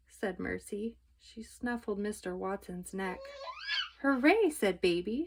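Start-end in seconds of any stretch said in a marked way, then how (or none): 4.0-4.5 cheer. A narrator's reading. Mercy is fine.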